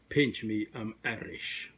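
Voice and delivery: joking Irish brogue, barely there; horrible Irish accent. Pretend. Host joking for Saint Patrick's Day, mock Irish accent. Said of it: "that was a horrible Irish accent".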